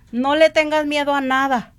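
repeated rising exhortation, each line punched; preaching exhortation. Acted. Urging the listeners against fear, fervent preaching. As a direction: preach it with mounting fervor.

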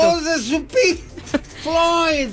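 high, slow crying wail; ghostly wail. Retold or imitated. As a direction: wail like a ghost, then break off. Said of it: "el último de Lamento".

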